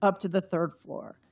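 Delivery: measured, even reading-aloud voice; story narration. A narrator's reading. Author reading her novel to the audience, measured narration. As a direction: tell the mystery scene steadily, page by page.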